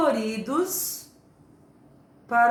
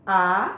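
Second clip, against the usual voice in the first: "abacaxi" with long pauses between a, ba, ca, xi; syllable by syllable; 3 semitones lower, 5 dB louder, much faster than usual. Shown as a demonstration. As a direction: dictate "abacaxi" one syllable at a time. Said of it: "tem que procurar".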